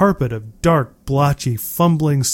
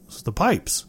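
absent murmur; 3 semitones higher, 7 dB quieter than usual. A narrator's reading. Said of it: "as if speaking to nobody in particular".

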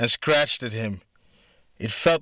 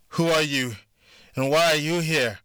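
sharp, raised demand; 5 semitones higher than usual. Acted. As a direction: press him hard for answers. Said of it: "Melissa demanded".

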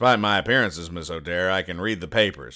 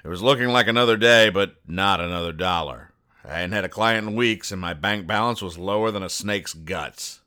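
noir detective. Acted. Noir private eye narration.

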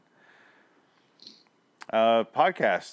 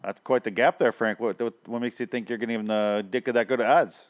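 hammed-up Chicago sports fan; mock Chicago accent; 2 semitones higher than usual. Fan questioning his buddy's score, mock Chicago accent. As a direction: quiz him in a Chicago accent. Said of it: "pulling that accent out".

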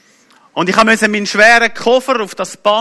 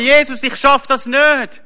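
high, drawn-out cry to God; acted wail of giving up; retold desperate cry; 6 semitones higher, slower than usual. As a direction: cry out helplessly, pitched well up. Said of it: "habe zu Gott geschrien".

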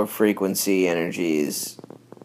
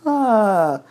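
mock scream; 12 semitones higher, 4 dB louder than usual. Shown as a demonstration.

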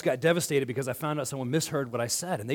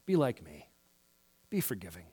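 mock dismissive attitude; 9 semitones lower, 7 dB quieter than usual. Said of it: "We have an attitude of".

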